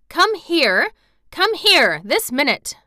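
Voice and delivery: high, loud, impatient summons; fierce, urgent repeated command; shouted order. A narrator's reading. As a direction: shout it insistently. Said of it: "he shouted to Dickon".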